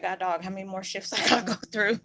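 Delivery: fast, laughing mock complaint to God; laughing exasperation. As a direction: toss it off with a rueful laugh. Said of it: "I said".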